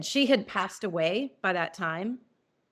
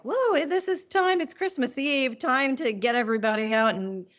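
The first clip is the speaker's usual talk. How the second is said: mock husband; 4 semitones higher than usual. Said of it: "when he was like".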